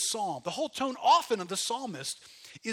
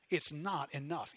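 quiet, slow repeat; 4 semitones lower, 5 dB quieter than usual. Shown as a demonstration. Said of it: "repeated contrast".

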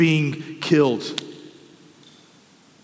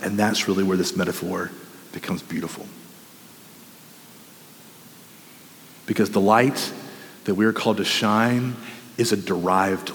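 hushed preaching; 10 semitones lower, 5 dB quieter than usual. Real, not acted.

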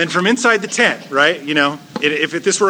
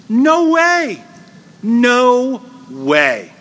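high, loud incredulous no way; mock scoffing old woman; scoffing disbelief; 6 semitones higher, 3 dB louder, much slower than usual. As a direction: scoff at the very idea. Sarah's inner scoffing reply.

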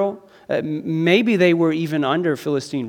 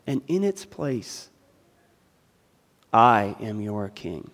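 voicing Christ; 2 semitones higher, 4 dB louder than usual. Preacher voicing Jesus' invitation.

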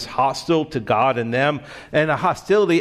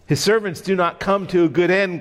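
higher, quicker, a mild gloat; 4 semitones higher, faster than usual. Acted. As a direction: let the monster savor the threat lightly. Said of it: "gloated Apollyon".

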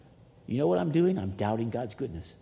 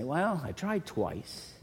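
mock resigned Elijah; 3 semitones higher, 3 dB quieter, much slower than usual. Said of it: "Elijah didn't say".

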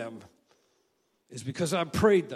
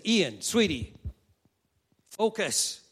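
imitating wife; 4 semitones higher than usual. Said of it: "She says".

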